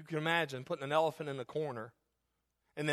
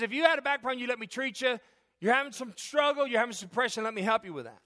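doctor's firm counsel; 8 semitones higher, 4 dB louder than usual. Retold or imitated. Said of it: "But he says".

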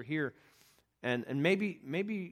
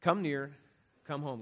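gentle plea; slower than usual. Real, not acted. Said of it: "I encourage you to come".

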